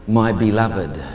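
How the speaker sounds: low-pitched divine endearment; voice of God. Retold or imitated. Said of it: "A voice had just simply said".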